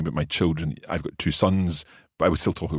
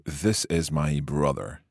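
slow prompt; 2 semitones lower, slower than usual. Shown as a demonstration. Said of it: "how would you say".

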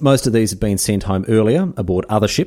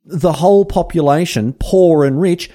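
reading Darwin's diary; 7 semitones higher, 4 dB louder than usual. Acted. Host reads Darwin's diary aloud to listeners, in a mock solemn higher voice. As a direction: intone Darwin's words with mock gravity. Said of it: "have a listen to this".

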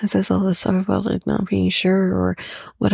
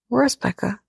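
imitating Jesse; 5 semitones higher than usual. Jesse quoted.

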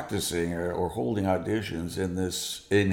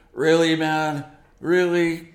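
incredulous scoff, a bit louder; mock disbelief; 6 semitones higher, 5 dB louder, slower than usual. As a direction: sneer at the cheap guitar in disbelief. Bandmate scoffs at cheap guitar.

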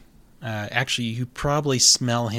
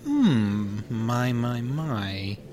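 cat voice; 3 dB quieter, much slower than usual. Acted. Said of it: "And he's like".

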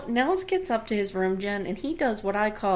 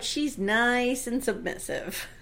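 read out slowly; slower than usual. Retold or imitated. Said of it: "I wrote".

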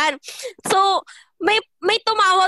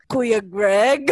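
sudden sweet greeting; 5 semitones lower than usual. Retold or imitated. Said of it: "sobrang bilis talaga ng shift".

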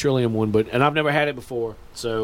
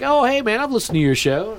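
excited fan; 8 semitones higher than usual. Retold or imitated. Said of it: "people were like".

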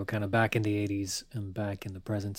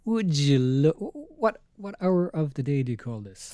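loud scolding boss voice; mock stern parent; 6 semitones higher, 8 dB louder than usual. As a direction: scold him for showing up late.

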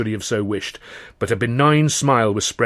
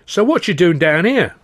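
musing giant; 7 semitones higher, 6 dB louder than usual. Acted. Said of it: "mused the giant".

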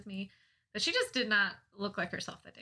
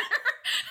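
breathy laugh; 13 semitones higher, 3 dB louder than usual. Real, not acted. Laughing at stoplight story.

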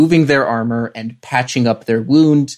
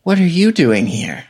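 high, startled question; surprised; 6 semitones higher than usual. Acted. Character finding his mom in the alley, surprised. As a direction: raise the voice in disbelief.

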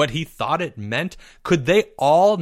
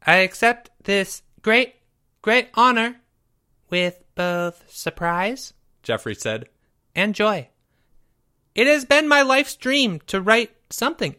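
grand acceptance speech; 7 semitones higher than usual. A narrator's reading.

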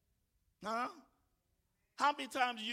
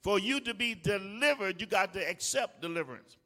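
emphatic repeat; 3 semitones lower, 5 dB louder than usual. Shown as a demonstration. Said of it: "can I talk to somebody".

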